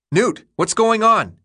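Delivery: high, drawn-out yell. A narrator's reading. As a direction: call out to someone across a yard. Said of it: "he yelled".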